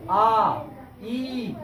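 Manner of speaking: आ and ई each held for two beats; long vowels. Shown as a demonstration. Teacher showing the class two-beat vowels, drawn out. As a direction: stretch आ and ई out evenly. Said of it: "दो दो लग रहा है".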